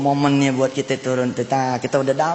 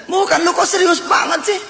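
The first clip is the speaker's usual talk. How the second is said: high, teasing voice of a tickled boss; amused boss; 12 semitones higher than usual. Retold or imitated. Boss reassuring the confused security guard, amused. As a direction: tease as if barely over a laughing fit. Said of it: "Wih, ketawa si bos".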